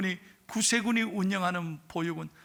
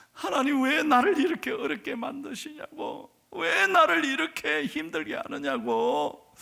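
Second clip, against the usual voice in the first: a raised, pleading cry to God; anguished prayer; 6 semitones higher than usual. Retold or imitated. Girl sobbing to God in prayer, pleading cry.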